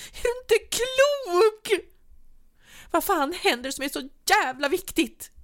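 very high and loud, the first words dragged slowly; furious screaming. A narrator's reading. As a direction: scream at him in disbelief. Wife screams at leaving partner.

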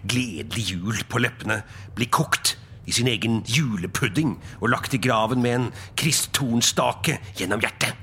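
put-on sour old miser's grumbling rant; grumpy tirade. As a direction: grumble scornfully about merrymakers. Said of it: "bjeffet han igjen". (gretten, hånlig tirade)

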